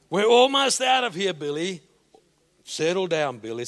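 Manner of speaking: patient, steady dad; calm father. Retold or imitated. Father soothing his screaming son at the checkout. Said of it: "showed no signs of losing control".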